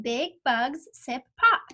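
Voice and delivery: slow, deliberate word-by-word; slow read-along. Shown as a demonstration. Teacher reading along with the pupil, slow and clear. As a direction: read it slowly so the child can follow. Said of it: "She's saying".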